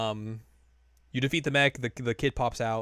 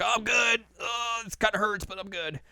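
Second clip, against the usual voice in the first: mock brave shrug; 9 semitones higher than usual. Crow downplaying his injury.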